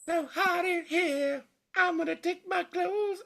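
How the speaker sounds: high breathy tease; sultry mock-seductive. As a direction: purr it like a hammy seducer. Joking about hot studio.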